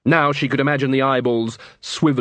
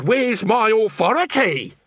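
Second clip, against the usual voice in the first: high, slow sneering echo of the guard; mocking mimic; 9 semitones higher, slower than usual. Nobby mocking the guard's question back at him, sneering. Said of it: "he says".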